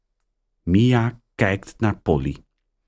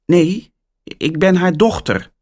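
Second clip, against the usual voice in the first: put-on higher, louder girl's voice; girl answering phone; 11 semitones higher, 4 dB louder than usual. A narrator's reading. Mia answering the phone, higher girl voice. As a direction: answer brightly as a young girl. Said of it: "antwoordt Mia".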